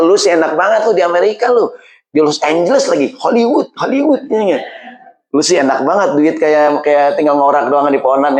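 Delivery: high, teasing envious voice; a hint of a sneering relative; mocking relatives. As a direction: mimic the jealous folks back home. Mocking relatives back home.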